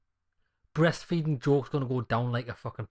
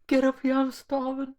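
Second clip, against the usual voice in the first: mock repeat; 12 semitones higher, 4 dB louder than usual. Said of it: "That is a fucking classic".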